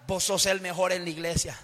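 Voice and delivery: voz suave y más grave, tentadora; voz halagadora del diablo. Acted. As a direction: susurra el halago como el diablo. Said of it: "dice Satanás". (voz baja y seductora del diablo)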